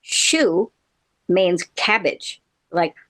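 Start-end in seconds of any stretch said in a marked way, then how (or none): 0.0-0.7 chou said exactly like English "shoe". Shown as a demonstration. Teaching listeners French, chou pronounced like shoe. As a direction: say chou as "shoo", one syllable. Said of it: "is pronounced the same as English".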